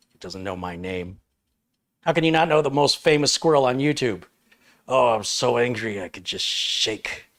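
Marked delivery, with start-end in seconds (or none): 2.0-7.2 indignant squirrel Nutty. Acted. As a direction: squeak it out like an insulted little celebrity. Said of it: "Take two".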